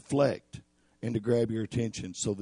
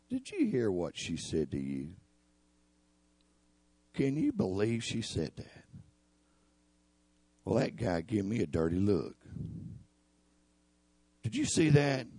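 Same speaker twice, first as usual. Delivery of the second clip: lower, softer gossiping devil; sly devil whisper; 3 semitones lower, 4 dB quieter than usual. Acted. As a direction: plant suspicion quietly, lightly voiced.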